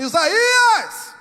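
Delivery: drawn-out divine summons; God calling out. Acted. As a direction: call his name across the palace courtyard. Voice of God calling Isaiah back.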